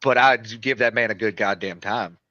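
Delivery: country twang on a drawn vowel; country accent. Real, not acted. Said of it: "that sounded so country".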